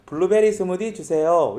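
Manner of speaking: a Gyeongsang intonation on "블루베리 스무디 주세요"; lightly done Gyeongsang ordering voice; Gyeongsang accent. Shown as a demonstration. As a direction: order in a Seoul café with a Gyeongsang lilt. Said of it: "이렇게 얘기하는데 억양이".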